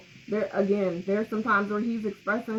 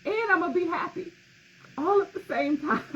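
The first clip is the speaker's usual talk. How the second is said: high, laughing reply to mom; half-laughing, mock defiant; retelling her own tearful laughing reply to mom; laughing retort; 10 semitones higher than usual. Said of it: "And I was like".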